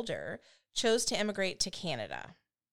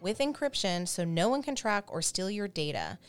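scripted sponsor read; polished host-read advertisement; podcast ad read. Acted. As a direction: read the sponsor copy clearly and evenly. Reads the sponsor ad.

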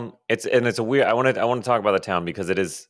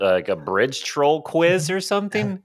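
confused man; 4 semitones higher than usual. Retold or imitated. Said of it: "he just".

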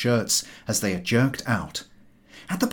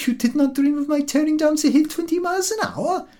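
indignant dog. A narrator's reading. The dog boasts to its human about racing downhill, high and proud. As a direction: puff up with pride as the dog.

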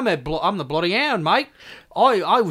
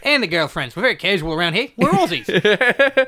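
Aussie gangster voice, fast; put-on Australian mobster; mock Australian Goodfellas. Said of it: "Australian Goodfellas".

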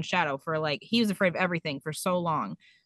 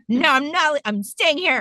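high, loud mock-tearful refusal; hammed-up tearful protest; imitated crying child; 6 semitones higher, 4 dB louder than usual. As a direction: play a wailing kid digging in. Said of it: "crying, and he's like".

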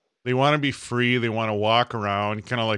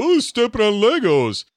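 mock pained cry; 11 semitones higher, 7 dB louder than usual. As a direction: imitate a kid yelping in pain. Mimics kids complaining of pain.

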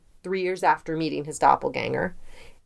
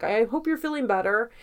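higher-pitched, kindly imitation; nice, well-wishing; 6 semitones higher, faster than usual. Politician to a colleague who had flu, kindly and high. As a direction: play him being really nice, voice lifted. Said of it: "Like, he's really nice".

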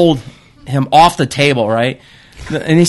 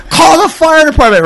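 high, urgent yell for help. Retold or imitated. Man at his burning yard yelling for help, high panicked yell. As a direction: shout for the fire department. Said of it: "I'm yelling this".

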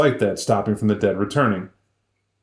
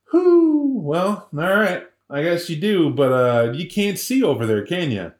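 high hooting whew, then slow and easygoing; owl voice; 5 semitones higher, slower than usual. Retold or imitated. Owl answers the stubborn wolf, slow and easygoing. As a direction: play a laid-back owl stretching out the words.

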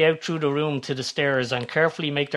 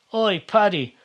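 higher-pitched call from behind; mild bellow; 7 semitones higher, 3 dB louder, slower than usual. A narrator's reading. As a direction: call out after someone, a restrained bellow. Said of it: "a voice bellows behind them".

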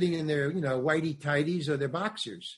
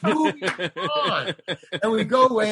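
higher, laughing through the words; 5 semitones higher, 6 dB louder than usual. Real, not acted. Retelling director's quick dismissal, laughing. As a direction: laugh while quoting the director's brush-off.

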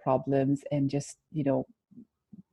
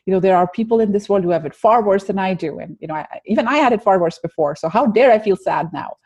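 mock self-scolding that grows higher and louder; harsh self-talk; 3 semitones higher, 5 dB louder than usual. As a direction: berate yourself, climbing as you go. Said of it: "our self-dialogue is".

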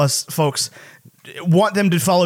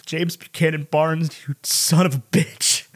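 slow, fond mock cursing; fond mock curse; slower than usual. Fan reacting to Bucky's scene, slow fond mock curse. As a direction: drag it out like a fan who's been moved. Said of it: "And I was like".

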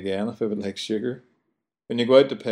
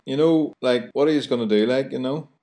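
Belfast chat; 4 semitones higher than usual. Retold or imitated. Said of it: "So I says to the brawler".

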